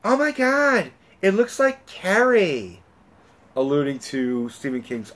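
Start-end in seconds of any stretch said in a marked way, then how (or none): 0.0-2.8 high-pitched mock stage whisper, drawn out; imitated loud whisper. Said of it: "says very loudly, but in a whisper".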